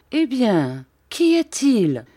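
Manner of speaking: a father panicking over his coughing son; alarmed cry. A narrator's reading. Count cries out in fright about his sick son. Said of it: "s'écria le comte en devenant blême".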